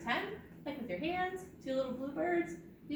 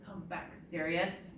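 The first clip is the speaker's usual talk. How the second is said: restrained solemn call; understated mock-serious; really serious; 3 semitones lower than usual. Shown as a demonstration. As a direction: call it back gravely. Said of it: "say it really serious".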